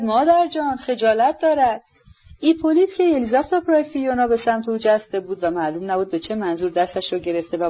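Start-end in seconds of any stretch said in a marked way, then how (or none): 0.0-1.8 higher, drawn-out protest, only mildly raised; mild cry. Acted. Daughter protests to her mother, mildly crying out. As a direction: cry out in reproach, holding back the volume. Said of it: "به صدای بلند فریاد زد".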